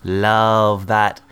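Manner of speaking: put-on chummy British accent. Predator greeting sweet pea as love, British accent. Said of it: "I've been doing a British accent".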